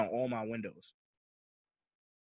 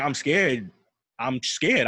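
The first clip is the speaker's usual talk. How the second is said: loud retold plea of fear; raised-voice re-enacted panic; wild shook; 7 dB louder, slower than usual. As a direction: insist loudly that you're frightened. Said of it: "I'm saying this wild shook".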